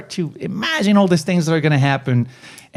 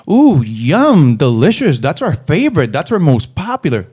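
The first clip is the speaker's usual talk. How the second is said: gushing sales pitch; 5 dB louder than usual. Shown as a demonstration. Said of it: "No, don't say that shit".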